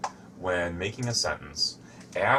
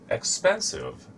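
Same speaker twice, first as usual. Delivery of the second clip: word demo, high start; 12 semitones higher, 3 dB louder than usual. Shown as a demonstration. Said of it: "has three syllables".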